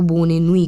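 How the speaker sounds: बोने नुई said as French bonne nuit. Shown as a demonstration. Teacher models बोने नुई for students in French. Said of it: "आपको बोने नुई कहना होगा".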